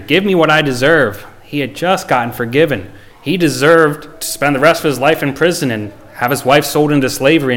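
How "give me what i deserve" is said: a touch of anger, pushed higher than the first take; mildly angry demand, pitch up. Retold or imitated. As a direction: repeat the demand with a little more heat. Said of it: "He was angry".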